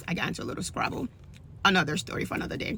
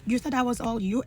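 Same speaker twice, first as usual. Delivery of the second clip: chastising God; 3 semitones higher than usual. Retold or imitated. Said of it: "he's chastising me".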